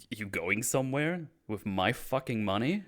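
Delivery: mildly heated mock accusation; angry accusation. Oz confronts Vic over his money, mildly angry. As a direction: act out a touch of menace. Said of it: "I like how angry Oz is here".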